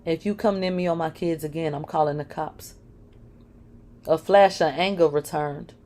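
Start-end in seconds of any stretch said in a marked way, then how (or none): 0.1-2.8 quiet words through clenched teeth; through gritted teeth. Acted. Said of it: "I spoke through gritted teeth".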